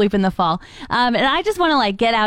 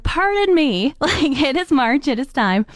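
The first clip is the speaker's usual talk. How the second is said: incredulous retort; 5 semitones higher than usual. Retold or imitated. Retorting to friends at dessert.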